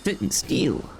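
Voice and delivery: breathy whispered repeat; hushed, playful whisper. Acted. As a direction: murmur it to yourself under the breath. Whispered echo of own line.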